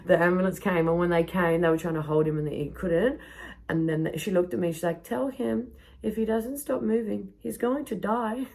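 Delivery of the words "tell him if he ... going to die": mock urgent warning.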